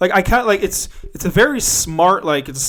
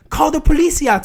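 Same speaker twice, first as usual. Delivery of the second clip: high, loud mock cry for help; yelling out the window; 12 semitones higher, 6 dB louder than usual. Passenger yelling to people outside, high mock yell. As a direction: imitate a passenger calling to bystanders. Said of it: "she's yelling out the window".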